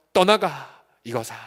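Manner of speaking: drawn-out, forceful command with a glare; scornful dismissal. Shown as a demonstration. Believer cursing Satan away, scornfully. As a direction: banish them with open contempt. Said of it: "눈 한번 흘기면서".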